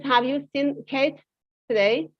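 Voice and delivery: "today?" lifted at the end; a genuine question, up at the end; rising question. Shown as a demonstration. Teacher contrasting a plain question with the tag. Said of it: "The, the question is".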